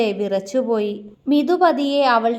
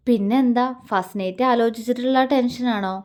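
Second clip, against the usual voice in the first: tender. Acted. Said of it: "അവൻ ആർദ്രമായി ചോദിച്ചു".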